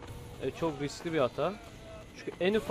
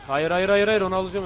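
frantic protest; 3 semitones higher, 6 dB louder than usual. Real, not acted. Losing the fight, protesting.

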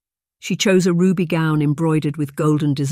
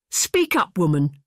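yelled; 3 semitones higher, slower than usual. Acted. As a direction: bark it at her like a drunken tyrant. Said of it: "yelled Sir Kenneth".

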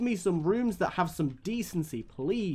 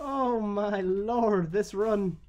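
mock lament; 3 semitones higher, much slower than usual. Mock lament over bad run.

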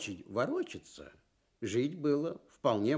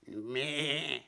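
bleating goat-like Me; short goat bleat of Ме; 2 semitones higher, 3 dB quieter than usual. Acted. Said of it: "заговорил козёл".

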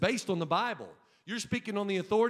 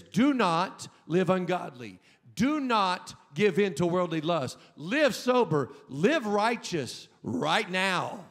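booming command; 6 dB louder, slower than usual. Acted. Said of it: "your teacher that says".

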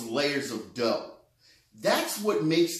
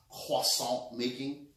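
slow, lightly French-accented pronunciation; showing off a hint of French accent; 3 semitones lower, 5 dB quieter than usual. Shown as a demonstration. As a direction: put on a touch of French accent, drawn out. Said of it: "You didn't know I had that accent".

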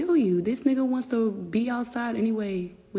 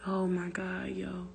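exasperated whisper; 6 dB quieter than usual. Real, not acted. Exasperated aside.

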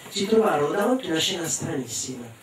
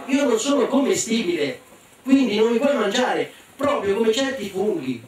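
boastful bluff; 5 semitones higher than usual. Acted. Boy bluffs he is inedible.

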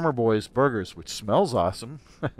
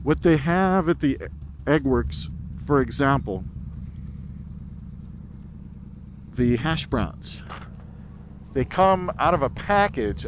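muffled inside a helmet; talking with the visor down; 3 dB quieter than usual. Real, not acted. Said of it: "I just put my visor up if the sound changed".

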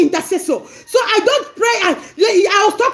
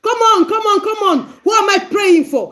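pressing come on, come on; urgent prayer demo. Shown as a demonstration. Preacher showing how to press God in prayer, urgent. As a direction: push God to act now.

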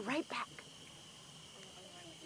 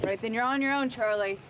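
angry; 8 dB louder than usual. Acted. Angry parting shot.

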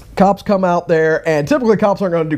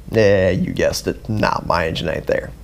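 mock scammer; 10 semitones lower, 4 dB quieter than usual. Voicing the scammer's mocking reply.

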